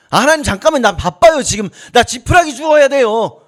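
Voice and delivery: acted "not now, I'm busy" fluster; busy brush-off. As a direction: put God off as if too busy, lightly acted. Busy person brushing off God.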